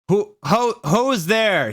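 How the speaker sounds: high loud startled call; janitor's shout. A narrator's reading. Janitor shouting into the dark hall, high and loud. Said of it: "he shouted angrily".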